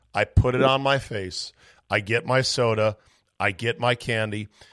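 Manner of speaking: usual speaking voice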